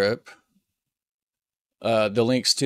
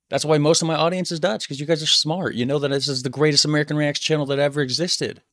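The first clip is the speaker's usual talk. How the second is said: playful bragging; 5 semitones higher than usual. Real, not acted. Teasing fans, playful bragging.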